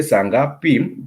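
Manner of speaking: slow "saa ngapi" with a lift on the last syllable. Shown as a demonstration. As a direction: raise the end of "ngapi". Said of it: "will take a higher intonation".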